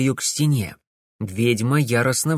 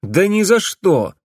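loud; 8 semitones higher, 5 dB louder, slower than usual. A narrator's reading. Alex refuses.

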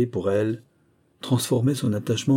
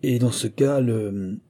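laisser « le » en suspens; « cas » qui monte, puis « le » inachevé; hésitant; slower than usual. A narrator's reading. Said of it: "hésita encore". (chercher ses mots après « le »)

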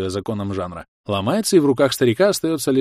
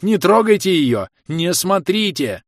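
shouting; 8 semitones higher, 5 dB louder, slower than usual. Acted. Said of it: "орал бегущий к ним".

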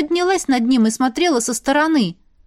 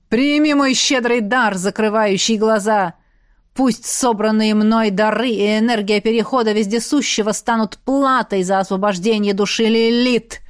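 demon lord voice. Acted. Demon lord's ritual words.

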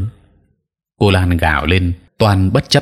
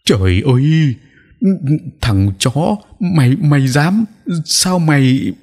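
howling in rage; 8 semitones higher, slower than usual. A narrator's reading. Old sorcerer howling at the rival who tricked him, raging. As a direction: cry out betrayed and furious. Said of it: "lão rú lên".

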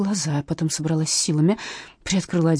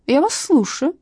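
high, mocking tone; 10 semitones higher, 4 dB louder, slower than usual. Captain mocking the hesitant witness. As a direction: needle her. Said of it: "насмешливо проговорила".

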